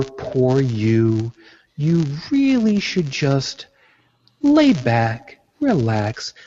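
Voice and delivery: drawn-out, swooping mock pity; mock placating. Imitating people who want to take care of all your problems, mock placating. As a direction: coddle them with exaggerated, condescending sympathy. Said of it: "trying to placate me".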